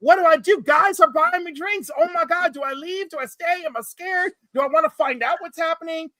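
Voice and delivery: high, anxious imitating a confused straight guy; mock panic. Straight guy in a gay bar, mock panicked and high. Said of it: "and they're like".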